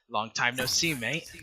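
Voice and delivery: lightly voiced sly stranger; cheeky stranger voice. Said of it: "word for word what it sounds like".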